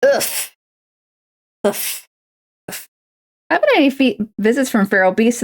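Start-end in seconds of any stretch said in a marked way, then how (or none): 0.0-2.8 effortful groans mid-stretch. Real, not acted. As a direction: grunt through the stretch. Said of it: "Sorry, I'm stretching".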